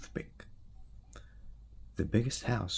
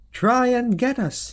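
high, loud, slow taunt; loud high taunting shout; taunting call; 8 dB louder than usual. Acted. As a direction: knight daring the dragonfly from behind the web. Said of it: "he called to the dragonfly".

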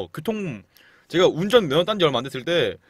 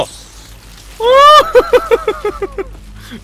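high shriek laugh; 12 dB louder than usual. Real, not acted. Rats rush in.

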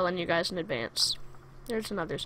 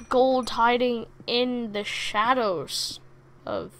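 slow dramatic line; slower than usual. Pretend. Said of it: "I'll just say it again".

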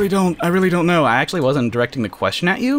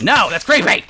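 mock disgust; 7 semitones higher, 4 dB louder than usual. Recoils from creepy milk joke.

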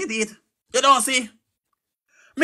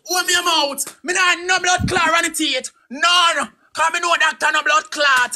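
yelling refusal; 3 semitones higher than usual. Real, not acted. Man refusing to show teeth, shouting back. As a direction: shout him down, refusing to open up.

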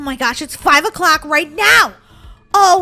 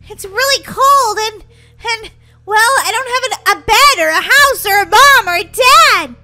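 higher, rising orphan's wail; plaintive lament; 3 semitones higher, 5 dB louder than usual. Pretend. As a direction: pile up the complaints, playfully upset.

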